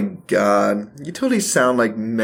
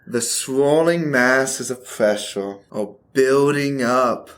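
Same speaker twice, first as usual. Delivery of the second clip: mock forecaster. Mock weather report, flirting.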